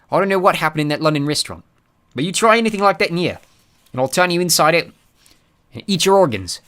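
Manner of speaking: loud thug threat; menacing. Acted. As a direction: threaten him coldly. Blunt threatens Artemis.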